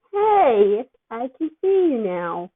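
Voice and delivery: loud, giddy, spaced-out; loopy excitement. Acted. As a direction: cheer like a drugged kid. Dopey Peter delighted.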